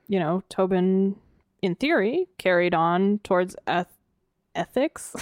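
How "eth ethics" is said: Essex said as "ethics" with a lisp. Real, not acted. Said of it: "You developed a lisp".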